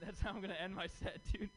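fast, laughing through the words. Real, not acted. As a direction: chuckle out "that's how I'm gonna end my set".

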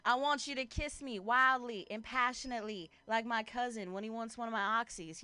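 mock-romantic country accent. Girlfriend playing the romantic for her boyfriend, light country accent. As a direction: woo them in a lightly hammed-up country accent. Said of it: "like, in a country accent".

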